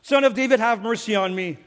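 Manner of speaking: a mild retold cry for mercy; mock shout. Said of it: "And he shouts".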